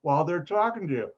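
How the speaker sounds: ordinary talk, nothing marked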